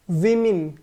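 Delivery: विमेन with a short i, WI-min; correct pronunciation. Shown as a demonstration. Teacher models the right way for the class, short i. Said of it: "इसका correct pronunciation है विमेन".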